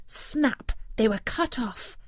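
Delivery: plain reading voice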